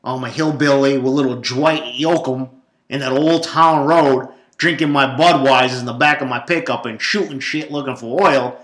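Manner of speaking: loud, drawn-out mock Texas twang; big hokey Texas country-boy voice; hillbilly drawl. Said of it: "people that go".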